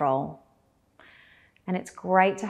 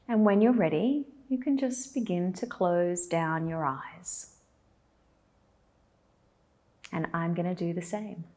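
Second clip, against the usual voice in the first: guided meditation. Acted. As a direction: lead them gently into stillness, with long pauses.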